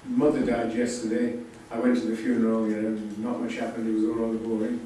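mildly bored, level-pitched quote; a touch of boredom, little pitch movement. Acted. Novel's narrator reporting his mother's funeral, mildly bored. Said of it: "an apparently thoroughly bored man".

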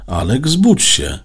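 loud, high urgent call; urgent self-command. A narrator's reading. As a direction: call out to wake yourself up. Boy orders himself to wake up.

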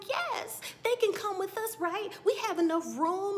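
high, loud imitation of an eager host; mock eager insistence. Acting out Lawrence insisting.

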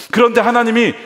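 high, loud cry on 그런데 하나님이; pleading climax. Acted. Jacob turns to God for help: loud high plea.

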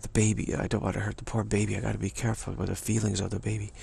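soft, fast cooing mother; doting mother. Retold or imitated. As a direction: fuss over the baby softly. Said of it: "and Mom says".

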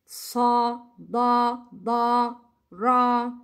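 "Sa, da, da, ra" one by one with dark aw vowels; heavy sounds. Shown as a demonstration. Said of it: "To make heavy sound". ("Sa, da, da, ra" as thick, separate syllables)

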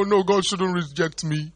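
slow high plea; begging Saul. Retold or imitated. Begging repeated.

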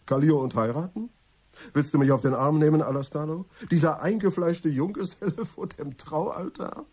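loud, high, laughing and incredulous; laughing disbelief. Acted. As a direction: scoff loudly with a laugh at the idea. Mocking news of Kallio's marriage. (laut und lachend, voller Unglauben)

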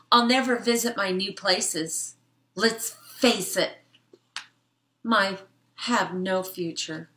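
lightly voiced sad bug; a hint of melodrama; gloomy fly. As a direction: mope like a tiny lost fly. Fly laments in vacuum.

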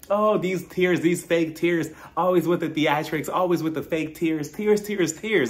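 taunting chant about fake tears; mocking imitation. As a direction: imitate someone jeering at a crier. Mimics Giselle mocking Candace's tears.

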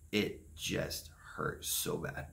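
near-whispered hurt. Real, not acted. Telling viewers how badly it hurt, in a breathy whisper. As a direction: let the words fall to a breath. Reliving loneliness after the party.

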